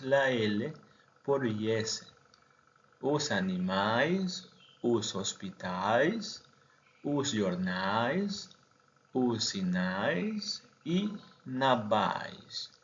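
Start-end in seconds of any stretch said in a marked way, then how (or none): 3.0-12.7 "os animais, os hospitais, os jornais, os sinais" con diptongo "ais" final, lento; pronunciación portuguesa. Shown as a demonstration. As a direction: decir "navais" a la portuguesa, lento y claro. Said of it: "Palabras terminadas en al". (plural portugués en "ais", despacio)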